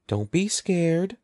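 soothing whisper. A narrator's reading. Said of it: "Evan whispered soothingly".

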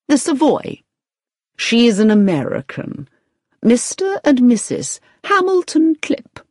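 high-pitched, breaking news; excited. A narrator's reading. Agency manager gives Victoria the details, excited. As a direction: announce each detail with excitement. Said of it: "who said excitedly".

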